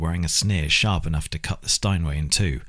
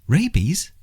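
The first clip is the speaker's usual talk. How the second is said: shocked, higher and sharper question; aghast; 11 semitones higher, 4 dB louder than usual. Acted. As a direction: gasp out the word in disbelief. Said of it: "Lucy was aghast".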